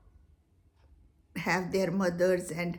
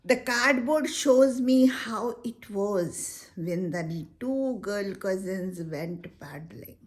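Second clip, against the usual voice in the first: poem recitation; 3 dB louder, slower than usual. Shown as a demonstration. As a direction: recite it gently, letting lines fall to a whisper. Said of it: "let's try to do the paraphrase".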